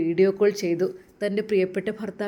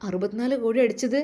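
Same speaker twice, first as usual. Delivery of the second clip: shocked disbelief; 4 semitones higher than usual. Acted. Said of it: "അവൾ ശരിക്കും ഞെട്ടി".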